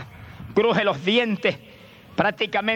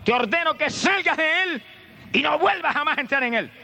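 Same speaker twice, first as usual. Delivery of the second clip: orden tajante, muy aguda y lenta; reprensión al demonio; 9 semitones higher than usual. Acted. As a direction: reprende como quien expulsa un espíritu. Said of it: "dice que reprendió al demonio". (reprendiendo con voz alta y autoritaria)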